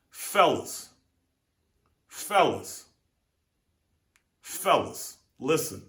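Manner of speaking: rally the guys for the lesson; calling the men. Real, not acted. Addresses crowd for moral.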